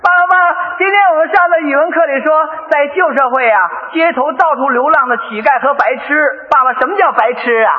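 a hint of a child reciting his lesson; son asking. Son runs in to ask father about a word, lightly childlike. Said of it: "这会儿他从外边跑进来了".

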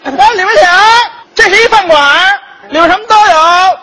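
high, loud hawking waiter's call; noisy restaurant waiter greeting a diner. Acted. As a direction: bellow a welcome like an eager waiter. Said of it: "我来这个饭馆的小伙计".

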